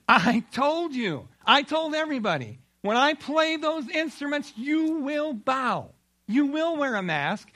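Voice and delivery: a raging king laying down the law; angry king. Acted. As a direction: thunder the decree like a tyrant. Angry king threatens the Jews.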